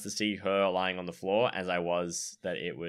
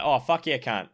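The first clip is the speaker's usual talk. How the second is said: put-on Aussie accent; 4 semitones higher, 4 dB louder than usual. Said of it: "hearing an Aussie say".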